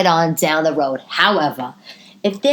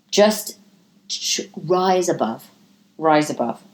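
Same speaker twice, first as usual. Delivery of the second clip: slow advice; 3 semitones lower, slower than usual. Shown as a demonstration. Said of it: "they say".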